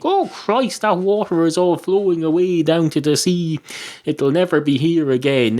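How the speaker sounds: high-pitched mock alarm, easing down; mock panic. Imagined worrier watching the river flow away, mock-panicked. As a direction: play at fretting, starting high on the exclamation.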